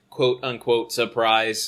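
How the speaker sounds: flat mechanical robot voice. Pretend. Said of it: "Why did you say it in robot voice?".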